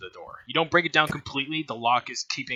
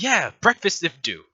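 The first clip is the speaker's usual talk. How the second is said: higher, louder, mildly mocking echo; boss humouring lackeys; 5 semitones higher, 5 dB louder than usual. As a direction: humour a simpleton in their broken speech. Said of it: "she's like".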